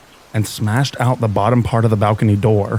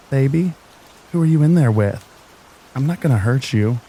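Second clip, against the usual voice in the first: put-on high, sugary baby talk; weird baby sweet voice; 4 semitones higher than usual. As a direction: coax sweetly, like talking to a baby. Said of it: "changes her whole tone into this weird baby sweet voice".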